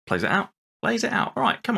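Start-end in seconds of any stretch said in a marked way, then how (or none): none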